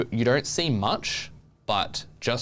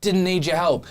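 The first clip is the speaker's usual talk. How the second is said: dismissive; 9 semitones higher, 6 dB louder than usual. Acted. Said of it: "be like".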